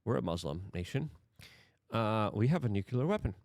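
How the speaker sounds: mock a nation caught sweating it; nervous mock Pakistan. Imitating Pakistan waiting in the corner, nervous and hushed. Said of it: "nervously being like".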